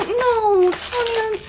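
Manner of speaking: high, loud happy protest; can't believe the gift; squealing "no, Tanya" at a friend's gift; overjoyed disbelief. Real, not acted. Overwhelmed by gift.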